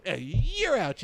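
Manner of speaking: high-pitched "you're out" yell; mock ejection call. Comic kicking out baited heckler, high triumphant call. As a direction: throw her out with relish.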